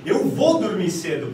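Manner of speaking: firm statement of certainty; assertive. Shown as a demonstration. Teacher shows students how certainty sounds, assertive. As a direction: say it as a settled decision. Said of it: "parece que eu tô tendo mais assertividade".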